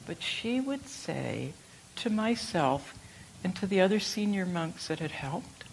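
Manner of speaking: usual speaking voice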